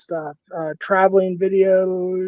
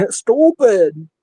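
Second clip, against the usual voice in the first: put-on Minnesota accent; 3 semitones higher, 5 dB louder than usual. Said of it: "You still have a Minnesota accent?".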